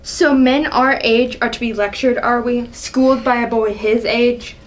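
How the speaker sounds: scornful, indignant royal rebuke; a proud ruler scolding a young upstart; angry king. Acted. King berating his son, angry. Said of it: "Seeing the angry side of her".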